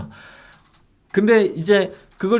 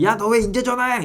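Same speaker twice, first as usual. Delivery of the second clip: mock furious scolding, pitched up; angry customer yelling; 8 semitones higher than usual. Seller retelling a buyer yelling at him on the phone, mock angry. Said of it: "진짜 말도 안 되게 저한테 화를 내시는 거예요".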